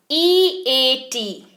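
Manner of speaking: letters spelled out slowly, one by one; slow, careful teacher spelling. Shown as a demonstration. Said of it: "spells the word slowly".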